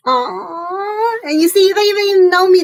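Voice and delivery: moved almost to tears; teary. Real, not acted. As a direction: voice cracking with emotion. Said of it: "you made me wanna cry".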